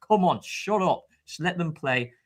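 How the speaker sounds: mildly aggressive mock telling-off. Fan wishing he could silence the crowd, mock aggressive. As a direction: imitate a tougher fan, only a touch forceful. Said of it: "I had such an aggressive voice".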